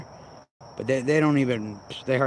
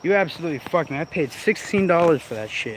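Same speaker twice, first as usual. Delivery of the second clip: pissed off; 5 semitones higher than usual. Real, not acted. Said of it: "and I'm pissed".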